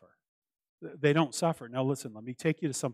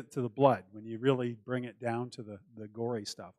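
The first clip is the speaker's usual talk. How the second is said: normal talking voice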